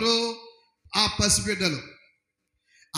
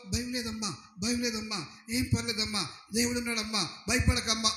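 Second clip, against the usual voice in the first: comforting words; 5 dB quieter than usual. Retold or imitated. Relatives comforting the new mother.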